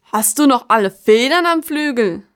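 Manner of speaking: lautes, empörtes Anfahren; aufbrausend. Acted. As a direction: fahr sie wütend an. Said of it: "Brauste Kasta". (aufbrausender alter Baum)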